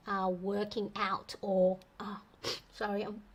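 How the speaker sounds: sniffly, holding back tears; talking through sniffles, teary. Real, not acted. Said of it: "getting teary in the runny nose".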